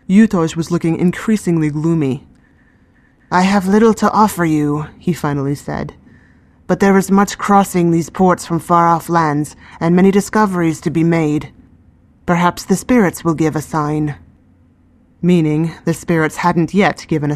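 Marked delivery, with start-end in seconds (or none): 3.3-4.9 put-on gloomy old man. 6.7-14.2 put-on gloomy old man.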